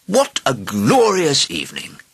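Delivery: slow, high, elated exclamation; delighted cry. A narrator's reading. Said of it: "he cried".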